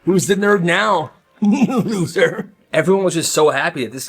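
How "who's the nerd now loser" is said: gloating. Acted. Gloating at bully's downfall.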